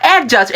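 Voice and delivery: অ্যাডজাস্ট as "A-just"; repeat-after-me pronunciation. Shown as a demonstration. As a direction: leave the d out of অ্যাডজাস্ট. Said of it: "আমার সাথে বলুন".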